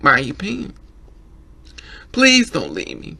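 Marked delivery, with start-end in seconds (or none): 2.1-3.2 a mock plea, a bit louder; imitated pleading. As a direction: beg him to stay, lightly acted. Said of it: "When a person cries saying".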